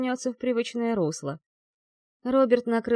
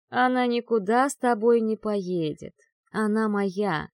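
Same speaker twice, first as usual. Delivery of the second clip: icy tone. Acted. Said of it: "леденящим душу тоном произнёс демон ночи".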